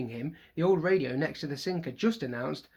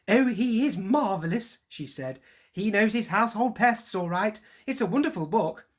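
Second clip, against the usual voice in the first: gushing; 6 semitones higher, 5 dB louder than usual. Acted. Mother admiring Lockhart.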